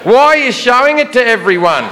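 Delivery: high, singsong mock politeness; politely sarcastic. Security guy remarks on traveller's laptop, extraordinarily sarcastic politeness. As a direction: feign admiration, voice lifting at each phrase end. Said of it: "very politely but extraordinarily sarcastically".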